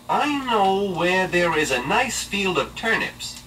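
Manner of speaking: slow, high coaxing wolf; sly wolf voice. Acted. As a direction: lure the pig sweetly. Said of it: "he said".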